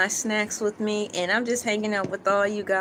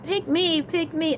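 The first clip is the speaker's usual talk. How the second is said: begging emojis; 6 semitones higher than usual. Acted.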